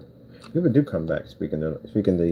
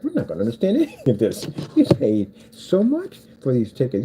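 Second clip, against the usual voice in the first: higher, mock-aggrieved theatregoer; retold complaint; 6 semitones higher than usual. Ticket buyer who can't follow the accents, high mock complaint. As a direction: protest it high, slowing on the cost. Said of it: "The guy was like".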